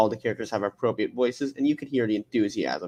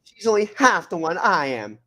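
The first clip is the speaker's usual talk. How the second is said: Cortana; 5 semitones higher than usual. Acted. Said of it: "So let me say the full line".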